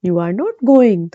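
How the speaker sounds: slow, separated you are not going; slow full form. Shown as a demonstration. Teacher reading the uncontracted example slowly. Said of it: "जैसे".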